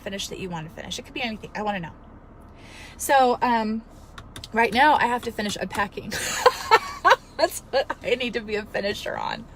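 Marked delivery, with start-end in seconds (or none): 6.1-7.2 high laugh. Real, not acted. Laughing about unpacking.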